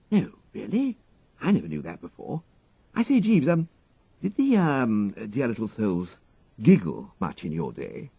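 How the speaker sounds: surprised and prying, the gentleman; curious young toff. A narrator's reading. Wooster quizzes his valet about giggling girls, eager toff.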